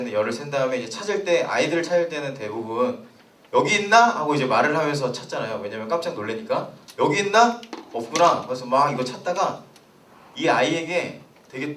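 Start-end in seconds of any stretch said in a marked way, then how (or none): 3.5-4.2 lightly acted hide-and-seek call, higher and louder; mock searching question, pitched up; playful seeker. 7.0-8.5 lightly acted searching call, high start then settling; mock hide-and-seek seeker, louder on the question; playful seeker.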